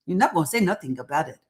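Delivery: a fast, lightly put-on Nigerian accent, scolding; hammed-up Nigerian auntie warning, quick; bad Nigerian accent. Host teasing the audience about Nigerian schooling, in a bad Nigerian accent. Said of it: "that's my really horrible Nigerian accent".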